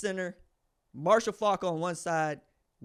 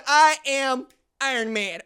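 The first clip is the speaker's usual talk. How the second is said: Tony Stark quote; 7 semitones higher, 9 dB louder, slower than usual. Retold or imitated. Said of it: "even Tony Stark going".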